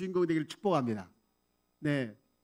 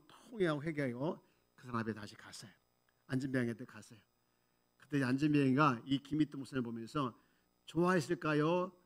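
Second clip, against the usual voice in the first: ordinary talk, nothing marked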